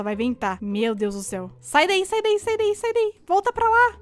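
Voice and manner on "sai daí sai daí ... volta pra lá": high, loud hurried sai daí; urgent warning. Real, not acted. Player urges teammate to run from the killer, high and loud. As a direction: shoo them away fast.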